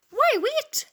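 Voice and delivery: lively storybook read-aloud for a class; reading to children. A narrator's reading. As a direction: read the poem out like a teacher to her pupils.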